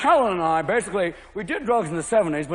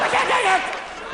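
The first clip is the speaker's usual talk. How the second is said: much higher, slow, laughing wail; hysterical golfer; slower than usual. Retold or imitated. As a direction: crack up in hysterics. Golfer losing it.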